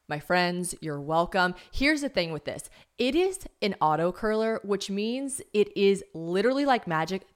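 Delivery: chatty, personal product endorsement; host ad read. Real, not acted. Host pitching a hair curler to podcast listeners, chatty ad read. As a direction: sell it casually to your listeners like friends.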